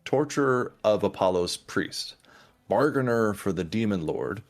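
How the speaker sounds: measured game master narration with pauses; story recap. Acted. Game master recapping the last session for players, measured narration. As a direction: recount it like an epic, phrase by phrase.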